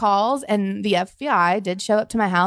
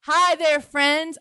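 brighter, quicker hi; retry the greeting more natural; second try at greeting; 7 semitones higher, much slower than usual. Shown as a demonstration. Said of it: "Let me try that again".

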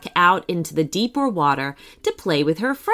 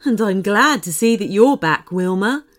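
glad, welcoming unicorn voice; warm; 2 semitones higher, 3 dB louder than usual. A narrator's reading. Large unicorn glad to see the little one back, warmly. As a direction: welcome them back kindly. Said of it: "said the unicorn warmly".

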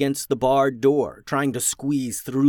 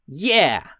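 a loud, higher blurt; 5 semitones higher, 7 dB louder than usual. Acted. Punch blurts agreement at the goblins, loud. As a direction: shoot it out before thinking. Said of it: "blurted out Punch".

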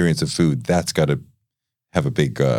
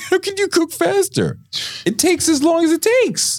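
incredulous laughing. Real, not acted. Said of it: "incredulous reply".

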